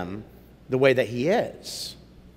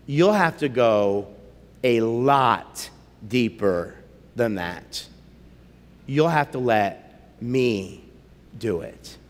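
low, soft lion voice going lower; lion speaking; 6 semitones lower, 3 dB quieter, slower than usual. Acted. Aslan telling Eustace to dig deeper, low and soft. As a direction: rumble it low and calm like a wise lion.

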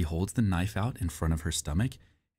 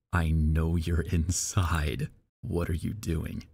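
slow creepy voice; much slower than usual. Retold or imitated. Creepy text message quoted.

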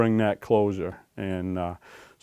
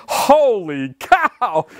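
startled; 7 semitones higher, much slower than usual. Retold or imitated. Startled by raccoon jumping.

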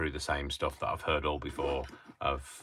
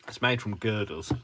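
higher, badly attempted Scottish accent; 4 semitones higher than usual. Crafter joking with his helper, poor mock Scottish accent. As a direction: have a rough go at sounding Scottish. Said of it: "That's not a Scottish accent".

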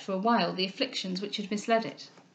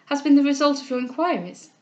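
higher, louder urgent demand; agitated, impatient raised voice; crying out; 4 semitones higher, 5 dB louder than usual. Acted. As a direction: press urgently for an answer. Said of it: "cried she".

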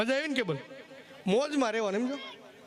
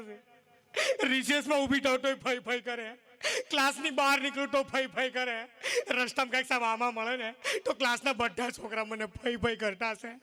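whiny crying complaint. Retold or imitated. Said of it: "રોતી રોતી કહે".

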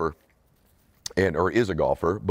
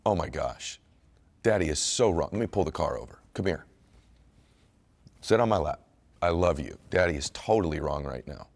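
put-on softer, gentle and loving, as if holding a child; imagined tender apology; 5 dB quieter than usual. Father pulls the car over to comfort his son, softly and tenderly. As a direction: soothe a hurt kid with a soft, heartfelt sorry. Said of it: "And I should have went".

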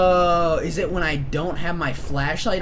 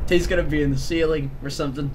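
scared whisper; faster than usual. Real, not acted. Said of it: "calm down".

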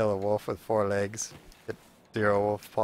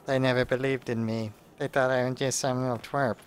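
mock the angry teen's brooding threats, drawn out; nerdy teen impression. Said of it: "that's my impression of that guy".

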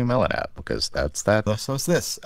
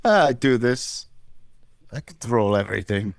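bad Russian accent. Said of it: "two guys doing bad Russian accents".

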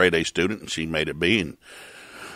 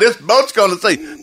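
much higher, louder and slow, insistent; mock angel; 11 semitones higher, 6 dB louder, slower than usual. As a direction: drag out the doom like a cheeky messenger. Angel repeats.

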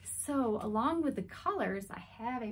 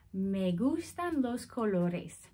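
slow; slower than usual. Shown as a demonstration. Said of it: "So it says".

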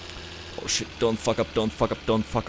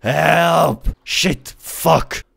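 yelled high and loud, frantic; panicked shouting; 8 semitones higher, 7 dB louder, much slower than usual. Real, not acted. Lost in the game, calling out.

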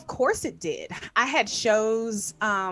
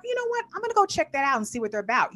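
excited inner voice; 5 semitones higher, faster than usual. Retold or imitated. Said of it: "you're like".

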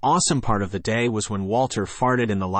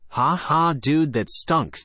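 laughing; 5 semitones higher, much slower than usual. Acted. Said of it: "laughing hysterically".

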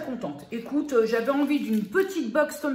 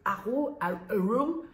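put-on English accent; 4 dB louder, slower than usual. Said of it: "on va arrêter avec l'accent anglais".

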